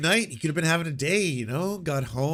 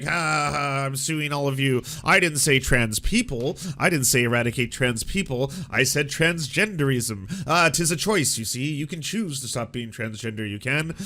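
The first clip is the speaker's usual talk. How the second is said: loud, slow smug lecturing voice; mock smug pundit; 4 dB louder than usual. Mocking Michael Knowles, loud smug lecturing voice. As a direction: ham up a smug gloating pundit. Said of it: "He's like".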